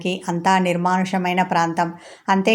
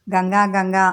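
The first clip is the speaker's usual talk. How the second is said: calling out loud. Acted. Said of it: "గట్టిగా అరిచి పిలిచాడు".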